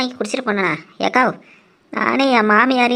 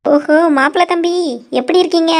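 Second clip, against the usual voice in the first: higher-pitched greeting to the bridegroom; effusive greeting; 6 semitones higher than usual. Acted. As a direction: hail him with a lifted voice. Hailing the bridegroom she just spotted.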